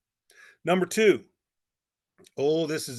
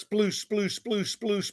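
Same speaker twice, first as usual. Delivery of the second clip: higher-pitched, repeated sploosh sounds; imitated splashing; 5 semitones higher, much slower than usual. Telling how the girl hits the lake, imitated splashing. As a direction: mimic splashing steps, one sploosh after another.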